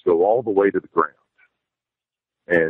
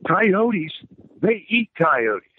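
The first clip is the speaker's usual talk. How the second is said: son's voice, much higher, slow and matter-of-fact; imitating son; 9 semitones higher, much slower than usual. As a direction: explain it slowly like the son did. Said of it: "and he says".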